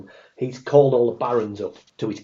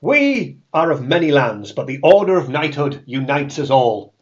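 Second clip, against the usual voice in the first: Joe Pasquale voice; 3 semitones higher, 6 dB louder than usual. Acted. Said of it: "in his Joe Pasquale voice".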